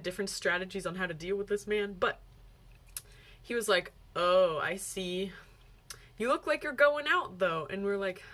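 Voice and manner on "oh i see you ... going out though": condescending. Retold or imitated. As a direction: imitate a stranger talking down to them. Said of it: "with this really condescending tone".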